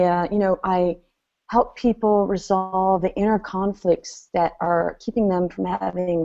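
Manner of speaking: exaggerated dull intro. Shown as a demonstration. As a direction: drag through it aimlessly, losing steam. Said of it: "I exaggerated on purpose".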